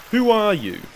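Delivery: firm challenge in a disguised voice, pitch rising then falling; deep disguised voice. A narrator's reading. Hidden woman challenges the startled slave, disguised voice. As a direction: demand it from hiding. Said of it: "she said in a deep tone".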